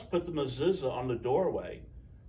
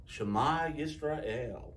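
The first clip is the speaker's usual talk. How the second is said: recited prayer; 4 dB quieter, much slower than usual. A narrator's reading. Reciting prayer words slowly.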